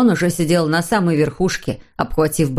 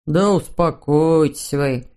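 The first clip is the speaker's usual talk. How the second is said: terrified babble; 3 semitones lower, slower than usual. A narrator's reading. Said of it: "в ужасе пролепетал Хемуль".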